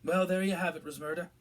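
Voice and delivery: thickly. A narrator's reading. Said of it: "said Fudge thickly".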